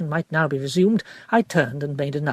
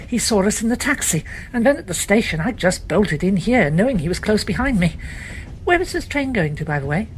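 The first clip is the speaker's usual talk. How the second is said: lightly voiced young woman, a touch breathless; 5 semitones higher than usual. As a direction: hurry through it, a little flustered. Elizabeth explains her flight.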